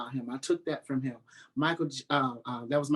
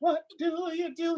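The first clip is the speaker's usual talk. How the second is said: imitating Donnie; 13 semitones higher than usual. Mimicking Donnie on stage.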